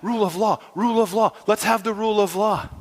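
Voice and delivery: high, loud agreeing cheers; mock crowd cheering. People cheering Satan's call, shouting agreement. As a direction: chant along like an eager crowd. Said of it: "And we're like".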